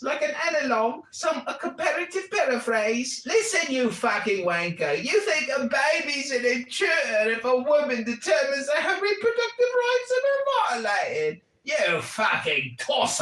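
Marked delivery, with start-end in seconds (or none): 3.3-13.2 angry rant. Real, not acted. Ranting at the clip.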